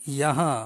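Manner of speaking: "Yaha" with a slightly nasal hum on the final vowel; nasal ending. Shown as a demonstration. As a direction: end "Yaha" on a light nasal ring. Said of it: "di belakang dia ada dengung sikit". ("Yaha" dengan dengung sikit di hujung)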